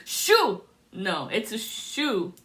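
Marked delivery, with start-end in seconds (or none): 0.1-0.6 high, loud laughing cry of delight. Real, not acted. A psychic laugh-crying on seeing a shoe. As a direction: laugh the word out, nearly crying.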